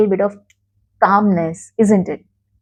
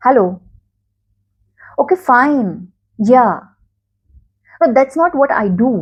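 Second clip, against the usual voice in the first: stressed curt. Shown as a demonstration. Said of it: "pick it up like that".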